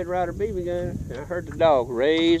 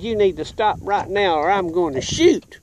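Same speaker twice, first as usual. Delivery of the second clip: lightly imitated cop's warning; police officer warning; 3 semitones higher than usual. Child threatening bike thief with BB gun, mild police-officer imitation. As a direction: give a warning like a cop. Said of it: "just like one of them police officers did".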